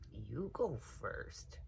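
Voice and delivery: slow, soft and nervous; scared child urging the other; a hint of fear; timid little voice. A narrator's reading. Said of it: "said Lightfoot".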